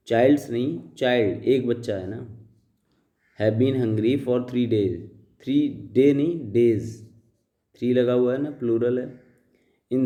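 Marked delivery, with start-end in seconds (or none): 3.4-5.0 slow, deliberate read-aloud of the paragraph; slow dictation reading. Shown as a demonstration. Teacher reading the paragraph aloud to students, slow and deliberate. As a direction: read each word out slowly for the class. Reads slowly.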